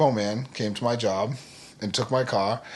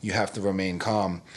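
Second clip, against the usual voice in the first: quietly soothing, keeping him calm; a hushed, steady voice to settle a panicking husband; softly reassuring wife; 2 semitones lower, 6 dB quieter than usual. Retold or imitated. Wife calms Rich during repo.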